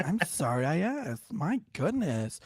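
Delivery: put-on slow, affronted old lady; super old lady. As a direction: imitate an offended old lady, drawing the words out. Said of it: "this super old lady".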